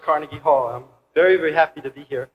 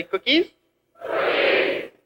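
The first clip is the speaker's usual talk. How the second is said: whispered cookies; 7 semitones higher, 5 dB quieter, slower than usual. Shown as a demonstration. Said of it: "everybody say".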